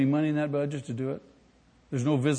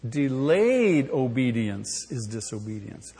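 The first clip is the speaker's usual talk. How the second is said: slow, lower call-and-response; slow repeated with congregation; 3 semitones lower, slower than usual. Shown as a demonstration. Congregation repeating after the pastor, slow. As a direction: chant it back slowly. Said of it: "Say that with me".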